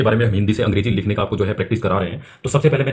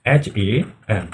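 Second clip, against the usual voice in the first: slow, letter-by-letter spelling; teacher spelling letters one by one; spelled out slowly; 2 semitones lower, much slower than usual. Shown as a demonstration. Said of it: "ये बन जाएगा एम ओ".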